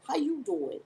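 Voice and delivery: "How you doing" pitched high; catchphrase intonation. Shown as a demonstration. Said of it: "I gotta get the right intonation".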